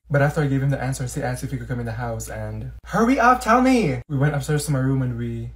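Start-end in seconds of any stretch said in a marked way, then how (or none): 2.8-4.0 high, eager demand; impatient shout. Acted. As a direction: tell me now, impatiently.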